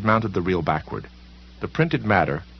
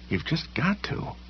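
strained, hushed self-urging, slower and higher; harsh mutter; 9 semitones higher, 6 dB quieter, slower than usual. A narrator's reading. Shattered Sam forcing himself to move, strained slow mutter. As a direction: push yourself on under the breath. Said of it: "he muttered harshly".

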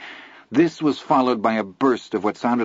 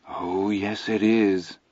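ominous; much slower than usual. A narrator's reading. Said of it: "Teddy said ominously".

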